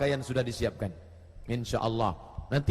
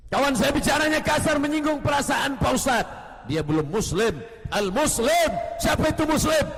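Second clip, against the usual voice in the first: higher and louder, near shouting; loud preaching; 8 semitones higher, 4 dB louder than usual. Acted. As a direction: hammer the point home to the crowd. Second, louder delivery of same words. (ustaz berseru keras dengan nada tinggi)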